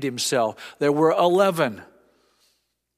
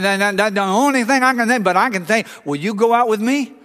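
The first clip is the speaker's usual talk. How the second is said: excited stammer; 6 semitones higher, 5 dB louder, faster than usual. Retold or imitated. Stutterer answers girl, excited.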